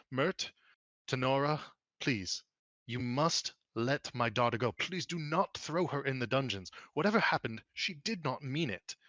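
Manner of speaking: earnest plea, drawn out on key words; pleading father. Acted. Father begs Mert and Tenora to spare his daughter, pleading. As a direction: beg them with rising pitch, then slow down.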